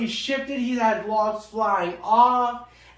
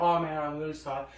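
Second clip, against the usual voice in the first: sheepish apology; 6 semitones lower, 6 dB quieter, faster than usual. Retold or imitated. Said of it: "he's like".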